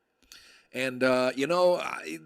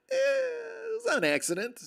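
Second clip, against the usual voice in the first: dismissive officer. Retold or imitated.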